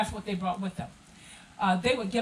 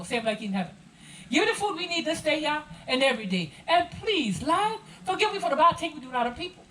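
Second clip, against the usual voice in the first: Gullah Geechee. Shown as a demonstration. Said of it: "share with you the Our Father prayer as written in Gullah".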